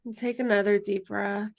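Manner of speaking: calm, unhurried meditation guide voice; guided meditation. Acted. Guide leading students through closing meditation, calm and unhurried. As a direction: lead the group gently into stillness. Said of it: "end just with the closing meditation".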